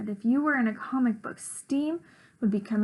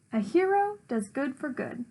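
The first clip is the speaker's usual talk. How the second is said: lightly voiced noble hero; a hint of a proud superhero; Captain Puff voice; 3 semitones higher than usual. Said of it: "in my Captain Puff voice".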